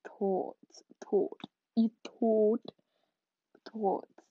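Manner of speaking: "thoughts" repeated in separate, halting tries; struggling to pronounce. Real, not acted. Podcaster stuck on a word mid-outro, struggling to pronounce. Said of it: "I can't say that word".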